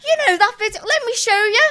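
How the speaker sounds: high, loud, eager imitation of the boyfriend; imitating partner. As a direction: play the excited boyfriend. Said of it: "And he's like".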